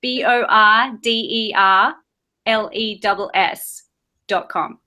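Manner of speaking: slow letter-by-letter spelling. Shown as a demonstration. Guest spells her website for the confused host, slow and deliberate. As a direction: spell "B I Z B O R D E R L E S S" out slowly, one letter at a time. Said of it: "It's my Australian accent".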